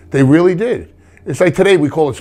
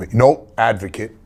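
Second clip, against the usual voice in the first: slow, corrective No, advocate; stress on advocate; slower than usual. Shown as a demonstration. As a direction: correct yourself, leaning on "advocate". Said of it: "Don't say manager".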